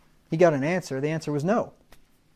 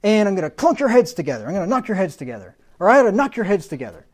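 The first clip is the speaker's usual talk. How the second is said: mock threats of an annoyed dad; irritated dad threatening; 3 semitones higher, 3 dB louder, faster than usual. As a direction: lightly act out a fed-up father's warning. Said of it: "when my brother and I really irritated him".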